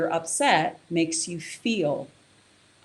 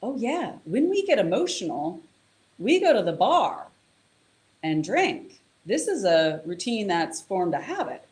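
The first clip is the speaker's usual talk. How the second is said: casual habit voice; 2 semitones higher than usual. Retold or imitated. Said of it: "the dorsal striatum goes".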